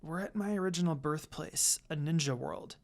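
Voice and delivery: whispered. Acted. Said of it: "I whispered to his ears".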